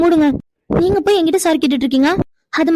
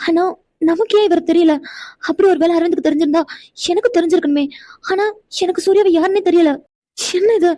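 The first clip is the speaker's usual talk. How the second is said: bewildered thinking aloud, a little raised and pressing; puzzled musing. Acted. Heroine alone, wondering what Aravind hides, bewildered. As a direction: keep asking yourself what is going on, baffled. Puzzled inner monologue after scene.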